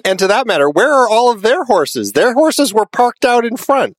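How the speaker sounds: baffled, voice shooting up; incredulous. Real, not acted. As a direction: pitch climbing high in disbelief. Baffled about vanished horses.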